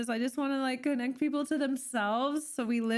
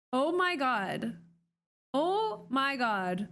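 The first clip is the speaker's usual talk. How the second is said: slow amazed gasp; much slower than usual. Real, not acted. Amazed by nail product.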